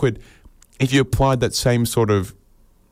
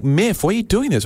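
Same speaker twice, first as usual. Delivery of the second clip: exasperated plea; 11 semitones higher than usual. Acted. Upset partner confronting Miff.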